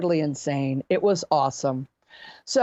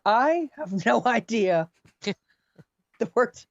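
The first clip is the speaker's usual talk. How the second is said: laughing; 3 semitones higher, much slower than usual. Retold or imitated. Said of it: "I just started laughing".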